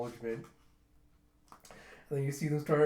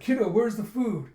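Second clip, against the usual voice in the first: high, loud rowdy call; mock demanding shout; 7 semitones higher, 7 dB louder than usual. Pirate calling boy for food, rowdy shout. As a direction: holler for service, playfully acted.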